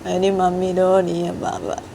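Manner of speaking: put-on high, tearful little girl begging; high whining crying kid; crying child. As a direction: sob out for mummy.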